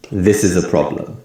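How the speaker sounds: strong "This", weak "is a", strong PROB- in "problem"; English sentence stress. Shown as a demonstration. Teacher demonstrating strong and weak sounds, with "This" and PROB- of "problem" stressed. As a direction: stress "This" and the first syllable of "problem", weaken "is a". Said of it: "more emphasis on the word this".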